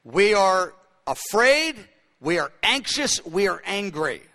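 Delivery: slow, heavy, deliberate lament; grave slow quote. Retold or imitated. Knesset spokesman telling of a dark future, slow and grave. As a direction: weigh each word of a bleak future. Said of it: "He said".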